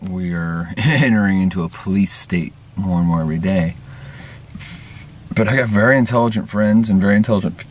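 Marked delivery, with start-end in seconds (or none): 5.3-7.7 burp breaking the last word; words pushed through a burp. Real, not acted. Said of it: "that was a burp".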